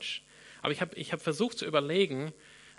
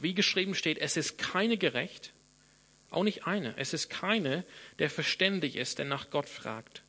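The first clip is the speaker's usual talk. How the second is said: raised, measured Bible reading to the church; scripture reading. Acted. Preacher reads Romans to congregation, solemn and emphatic. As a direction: proclaim the verses with weight on keine and nicht.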